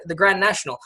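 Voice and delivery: Grand National in a British accent; "Grand National" the way the Brits say it; British pronunciation. Shown as a demonstration. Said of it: "that's how they would say it".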